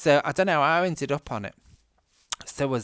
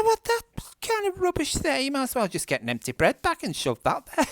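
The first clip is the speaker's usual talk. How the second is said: mock outrage; 14 semitones higher, 3 dB louder than usual. Mocking friend's plastic grass.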